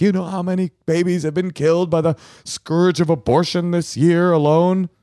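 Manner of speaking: high-pitched mimicked dinner-guest rant; imitated pro-life zealot. Pro-life guest sounding off at a rabbi's dinner, high mimicked voice.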